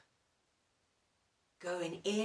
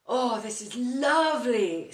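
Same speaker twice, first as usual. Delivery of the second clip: loud, happy, cosy delight; loud pleased cosy exclamation; contented sigh; 4 semitones higher, 9 dB louder than usual. Acted. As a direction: sigh with pleasure, all snug in bed. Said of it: "said Mister Bear".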